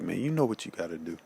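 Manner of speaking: quick, firm command; stern. Retold or imitated. To his fading father, a quick stern order. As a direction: urge him, no nonsense. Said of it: "something in me just kinda just got real stern".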